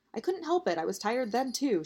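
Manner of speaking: high, defensive protest. Acted. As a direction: push back in a high voice. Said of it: "she tried to defend herself".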